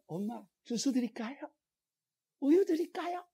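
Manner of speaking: lightly voiced small child, sweet; a hint of a little kid asking mom; child offering juice. Child offering mother juice or milk, lightly childlike. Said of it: "꼬마들도".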